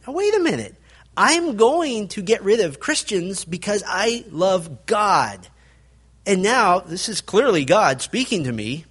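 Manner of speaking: a double take, thinking aloud as Saul; Saul's confusion. Retold or imitated. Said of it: "this would be very confusing".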